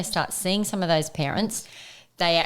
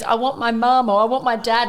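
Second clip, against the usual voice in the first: lightly imitating a crying child, a little louder; a mild whiny little kid calling for a parent; upset child; 6 semitones higher, 6 dB louder than usual. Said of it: "one that goes".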